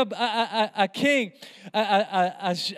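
breaking into a laugh mid-phrase. Real, not acted. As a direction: chuckle through the stumbling words. Preacher laughs mid-sentence.

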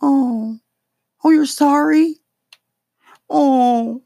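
high, loud mock-incredulous oh; sarcastic disbelief. Real, not acted. Comic mocking Bloomberg's apology, high loud sarcastic disbelief.

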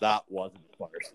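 breathy whisper, no voice at all; whispered aside. Retold or imitated. Whispering to himself, caught by his own fart. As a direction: hush it like a guilty secret. Retold private reaction to fart.

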